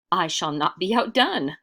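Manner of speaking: cry out. Acted. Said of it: "cried another".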